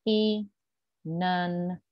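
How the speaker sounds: the n moved onto "an" as "e nan". Shown as a demonstration. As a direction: show the linked n. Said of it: "it will sound like".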